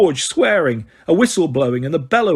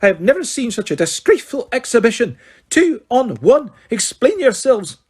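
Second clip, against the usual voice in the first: furious teacher; 8 semitones higher, 3 dB louder than usual. Acted. McGonagall rebuking Harry and George, furious. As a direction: spell out each word in cold fury. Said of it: "quivering with rage".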